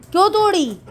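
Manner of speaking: high, loud whiny put-on dog voice; dog's complaint. Mother voicing her dog asking why she broke his roti, high and whiny. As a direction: speak for the sulking dog.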